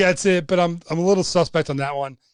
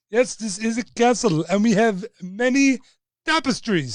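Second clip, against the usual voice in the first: lightly put-on movie-character accent, a bit higher; botched attempt at a film accent; bad Indiana Jones accent; 5 semitones higher than usual. Host quotes Indiana Jones and the Last Crusade in a failed accent. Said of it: "That accent was not correct".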